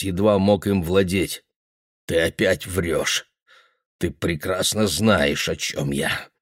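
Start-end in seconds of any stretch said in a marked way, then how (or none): 2.1-6.3 slow, quiet, strained; choked. Acted. Guthrie accusing the boy, slow and choked. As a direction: hold the rage down, words forced out. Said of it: "какой сдавленный у него голос".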